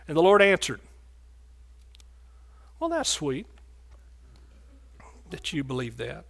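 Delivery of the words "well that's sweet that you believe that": a hint of syrupy mock sweetness, fading softer; patronising pat on the head, lightly; mock sweet. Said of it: "Oh, no, he said".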